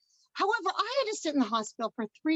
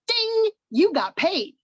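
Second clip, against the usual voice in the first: high, drawn-out singsong announcement; playful mock alert, stretched and raised; acted payment alert; 6 semitones higher, 3 dB louder, slower than usual. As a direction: chime it out like a notification. Acts out phone payment alert.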